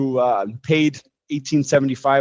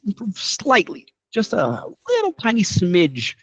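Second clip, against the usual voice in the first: slow, high, dainty voice; teeny-weeny voice, slow and pitched up; tiny amount; 7 semitones higher than usual. Shown as a demonstration. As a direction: draw it out up high to show how tiny.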